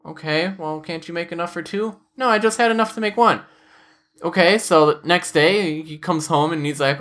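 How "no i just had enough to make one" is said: imitated wife. Voicing wife in retold quarrel.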